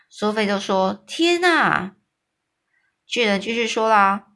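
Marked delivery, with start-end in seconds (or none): 1.1-1.9 high, startled cry; a little girl horrified by the giant's talk; shocked gasp. A narrator's reading. Sophie hears of man-eaters.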